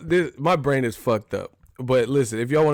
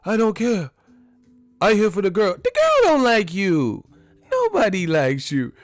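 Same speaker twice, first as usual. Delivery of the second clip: much higher, louder Tucker rant; Chris Tucker impression; 9 semitones higher, 4 dB louder than usual. Chris Tucker telling Jackie nobody wants him, high-pitched and loud. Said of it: "Chris Tucker was like".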